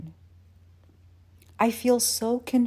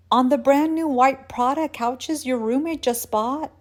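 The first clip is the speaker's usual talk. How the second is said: high, loud alarmed question; raised, aghast questioning; horrified disbelief; 6 semitones higher, 5 dB louder than usual. Acted. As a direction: pile on the horror word by word. Horrified at possible damage.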